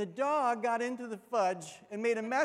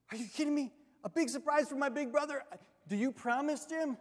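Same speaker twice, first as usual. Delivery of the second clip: put-on eager kid; 5 semitones higher, faster than usual. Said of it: "I'm like".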